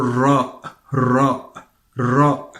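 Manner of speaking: RA with a tapped, rolled Arabic r. Shown as a demonstration. Teacher contrasts it with English, rolled Arabic Ra. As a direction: flick the tongue crisply to start RA. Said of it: "But in Arabic, it's something else".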